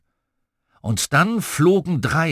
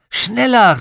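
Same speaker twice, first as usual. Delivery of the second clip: high, loud urging shout; excited call; 10 semitones higher, 9 dB louder than usual. A narrator's reading. Boy urges on the pretend dragon, excited call. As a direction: spur the dragon on. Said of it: "rief ich".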